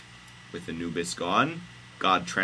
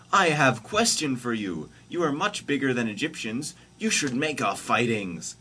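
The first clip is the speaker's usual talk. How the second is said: raised, high-pitched hero voice; high, emphatic storybook dialogue; Moses character voice; 6 semitones higher, 4 dB louder than usual. Acted. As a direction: pitch it up and declaim. Moses' quoted speech in story.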